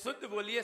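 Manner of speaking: शुद्ध बोलिए with a short, light sibilant; weak श, wrong way. Retold or imitated. Teacher imitates the student's mistake, weak short श in शुद्ध. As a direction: say शुद्ध with no whistle on the श. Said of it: "आपने ऐसे बोल दिया".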